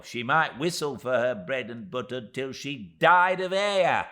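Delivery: high, loud little-woman voice; a small dwarf woman pleading her case, pitched high; tiny Miss Moucher. Acted. Miss Moucher to David, defending her lot in a high voice.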